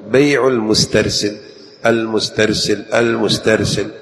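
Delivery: المسترسل repeated with a thin ت; light-ta drill. Shown as a demonstration. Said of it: "يعني درب لسانك".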